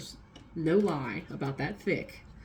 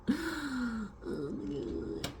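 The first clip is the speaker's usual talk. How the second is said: shocked; 8 semitones higher, 6 dB quieter, much slower than usual. Retold or imitated. Reacting to second job news.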